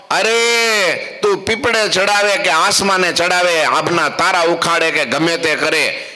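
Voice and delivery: drawn-out high અરે, then a defiant tirade; defiant outburst. Acted. Devout wife defies the monk's magic, high and defiant. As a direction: defy him, high and ringing.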